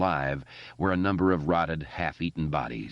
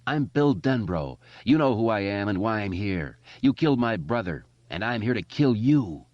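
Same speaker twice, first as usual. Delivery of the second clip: put-on defiant boy hero; 3 semitones higher than usual. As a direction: stand up to the monster boldly. Bill confronts the creature.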